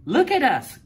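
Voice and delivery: high, loud outcry; excited cry. A narrator's reading. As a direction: shout it out in shocked delight. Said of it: "cried Wanda".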